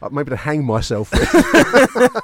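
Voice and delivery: laughing while talking; words through a laugh. Real, not acted. Laughing at the gift idea.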